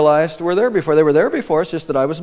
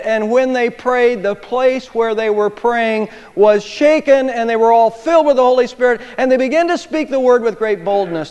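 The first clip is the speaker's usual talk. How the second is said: louder, building reading; fervent scripture reading; 5 semitones higher, 3 dB louder than usual. Acted. Preacher reading Acts, fervent. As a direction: read it out with fire.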